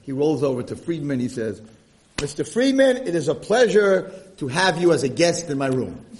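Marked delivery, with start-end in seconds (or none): 2.2-6.0 effusive, louder host's greeting; cheery welcome. Acted. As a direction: welcome him grandly, voice lifted. Cheery welcome to new roommate.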